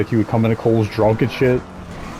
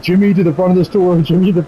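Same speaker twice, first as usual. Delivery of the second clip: intercom page; 6 semitones higher, 3 dB louder than usual. Retold or imitated. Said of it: "Fred paged him, he's like".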